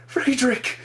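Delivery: high, loud cry of a name; anguished shout. Acted. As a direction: scream his name in panic. Shouting at dead friend.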